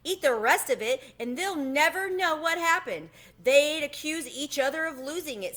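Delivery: excited high squeak. Acted. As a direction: pipe up with a sudden idea. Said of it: "clapped his paws and squeaked".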